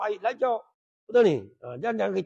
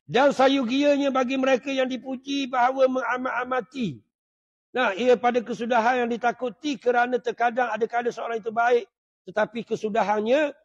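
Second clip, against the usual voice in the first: raised, steady reading tone; reading from religious text; 3 semitones higher, 3 dB louder than usual. A narrator's reading. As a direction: read the passage out on a sustained line. (bacaan kitab dengan nada mendatar)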